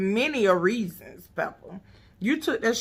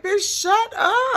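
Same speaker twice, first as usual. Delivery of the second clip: mock snap; 14 semitones higher, 5 dB louder, slower than usual. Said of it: "And I was like".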